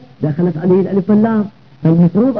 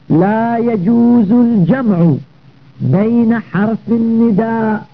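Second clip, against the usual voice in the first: slow, deliberate reading of a rule; dictating a grammar text slowly; measured text reading; 3 semitones higher, much slower than usual. Shown as a demonstration. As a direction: read out the rule word by drawn-out word.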